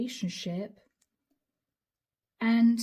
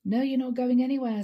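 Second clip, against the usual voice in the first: louder and faster, insistent refusal; firmer angry retort; 3 semitones higher, 5 dB louder, faster than usual. Retold or imitated. Leo refusing to let his partner leave, louder angry insistence. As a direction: snap it back, louder and quicker. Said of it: "says Leo".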